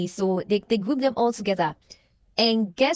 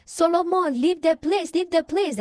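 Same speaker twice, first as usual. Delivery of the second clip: scream; 7 semitones higher than usual. Retold or imitated. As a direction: yell at him to get out now. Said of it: "he's trying to scream that".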